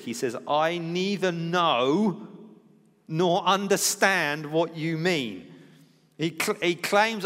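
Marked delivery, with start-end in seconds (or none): 0.5-5.5 slow, deliberate, every word weighed; emphatic denial. Retold or imitated. Peter to the servant girl, slow emphatic denial. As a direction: Peter firmly denying he knows Jesus, slow and emphatic. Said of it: "Peter's denial is emphatic".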